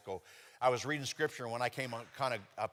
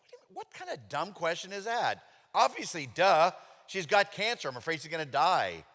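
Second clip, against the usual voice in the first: higher, louder, exasperated snapping back; irritated retort; 5 semitones higher, 6 dB louder than usual. Retold or imitated. Answering the thought in his head, irritated and high. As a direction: fire it back, fed up with the question. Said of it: "I was irritated by that thought".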